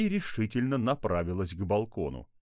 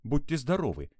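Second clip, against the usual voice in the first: put-on higher, courteous child's voice; polite little girl; 6 semitones higher, 3 dB louder than usual. A narrator's reading. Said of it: "вежливо сказала шестилетняя Алиса".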